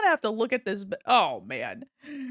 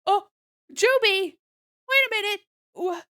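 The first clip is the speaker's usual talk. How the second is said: surprised; 7 semitones higher, 6 dB louder than usual. Real, not acted. Streamer surprised by a gift boost.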